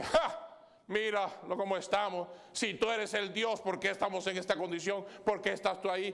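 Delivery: a scornful thief jeering with a short laugh; mocking laugh. A condemned thief mocking Christ on the cross, scornful. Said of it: "Uno se ríe y dice".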